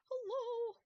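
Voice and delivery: very high, loud hello; long, high-pitched holler; loud calling out. Real, not acted. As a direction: call out high and insistent. Calling out louder after no answer.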